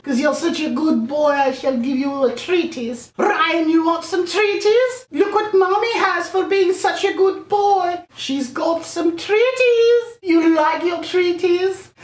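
high, slow domineering queen; evil queen voice. Pretend. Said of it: "like the queen".

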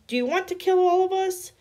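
high, loud panicked scream; frightened scream. A narrator's reading. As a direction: scream at him in terror. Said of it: "I screamed".

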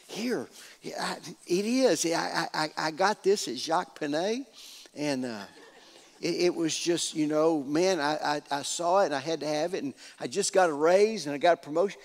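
low-key, stammering humblebrag; sheepish showing off. Acted. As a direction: play a man modestly showing off, tripping over his words. Jeroboam showing off his new coat.

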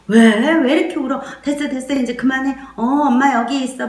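put-on anxious mother caught up in the baby's mood; agitated mother. Shown as a demonstration. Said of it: "엄마가 아이 감정으로 들어가는 거거든요". (아이 감정에 휩쓸려 다급해진 엄마)

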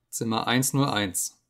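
slow, level, unmoved; officer unmoved by the screaming prisoner; a hint of a cold officer. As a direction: state it flatly and slowly.

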